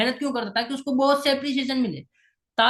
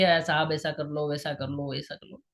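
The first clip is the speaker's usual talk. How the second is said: lower, softer pleading that fades away; mock begging; 7 semitones lower, 5 dB quieter than usual. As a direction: imitate someone begging a boss for a favour. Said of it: "हाथ फैला के नहीं रहना है". (हाथ फैलाकर धीमी गिड़गिड़ाती आवाज़)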